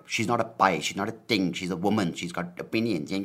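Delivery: mildly hammed-up indignant protest; mock objection. Comedian imitating listeners offended by his pie remark, mock indignation. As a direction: push each point like an offended critic. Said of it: "before you're like".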